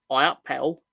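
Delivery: Londoner's attempt at "I up pedal", opening on an "eye" vowel; mispronounced Yorkshire greeting. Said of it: "you're pronouncing an A as an I".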